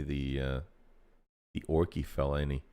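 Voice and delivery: low gruff orc grumble. Acted. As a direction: rumble it like an orc. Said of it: "be read in an orc voice".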